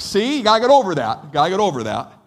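put-on tough-love coach barking at a kid; coach shouting. Coach scolding kid after hit.

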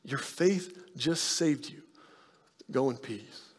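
slow, soft, tender blessing; tender Jesus. Retold or imitated. Jesus speaking to the weeping woman, soft and slow. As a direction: gently release her. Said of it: "Jesus looks at her and he says".

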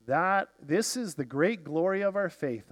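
ordinary delivery

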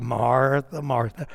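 low, soft name with a touch of amusement; quiet, indulgent repetition of the name; gently amused endearment. Shown as a demonstration. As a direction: chide her fondly, almost laughing. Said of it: "I think he kinda laughs".

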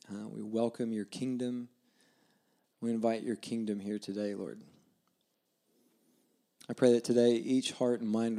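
soft, unhurried prayer to Jesus; hushed pastoral prayer. Real, not acted. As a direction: pray quietly and sincerely, leaving pauses. Leads the congregation in prayer.

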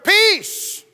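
loud, high command to the storm; commanding shout. Acted. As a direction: order the sea to be still. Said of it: "He goes".

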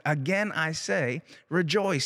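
"Again" held out, then "rejoice" punched; extra emphasis. Acted. Preacher quoting scripture's repeated command to the congregation, with extra emphasis. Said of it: "He's putting extra emphasis on this".

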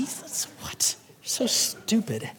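hushed mock disbelief; incredulous whisper. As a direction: whisper it as if dumbfounded. Mock disbelief at absurd objection.

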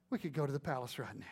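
fast conspiratorial whisper; tempting whisper. Retold or imitated. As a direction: hiss the temptation in his ear. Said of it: "leans over and says".

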